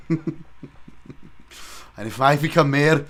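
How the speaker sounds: put-on ranting Scottish accent as Willie, loud; Scottish Willie shout. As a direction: roar it like a mad Scottish groundskeeper. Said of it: "Oh, Willie".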